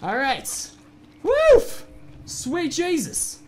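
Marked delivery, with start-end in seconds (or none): 1.2-1.9 high yelp. Real, not acted.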